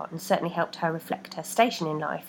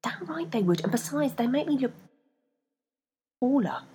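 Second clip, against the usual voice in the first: whisper; 6 semitones higher than usual. A narrator's reading. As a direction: insist under breath. Rebecca whispering.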